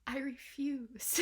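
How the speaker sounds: hushed, voiceless refusal to believe; whispered disbelief. Real, not acted. Reviewer refusing to believe the album is this good, whispering. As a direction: whisper it in stunned denial.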